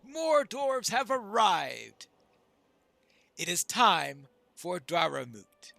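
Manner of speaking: loud, formal thanks and announcement; proclaiming dwarf leader. Acted. Dwarf leader calling the moot to order, loud proclamation. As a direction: proclaim it to the gathered dwarves.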